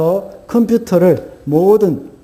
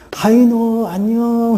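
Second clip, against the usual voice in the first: villagers' greeting called out, high and drawn out; imitated calling out; 7 semitones higher, slower than usual. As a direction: mimic calling a name from afar, pitched up. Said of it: "이렇게 소리를 지릅니다".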